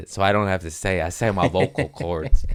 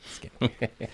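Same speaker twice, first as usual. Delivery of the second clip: whisper; 9 dB quieter, faster than usual. Pretend. Repeats phrase whispered.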